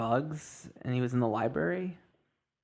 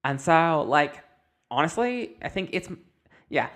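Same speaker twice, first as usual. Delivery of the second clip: lightly voiced gushing fangirl; 2 semitones higher than usual. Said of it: "she goes".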